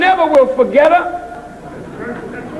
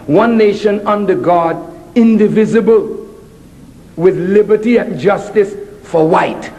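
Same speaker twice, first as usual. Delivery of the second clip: reciting the pledge; 6 semitones lower than usual. Shown as a demonstration. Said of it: "I will repeat it as you say it now".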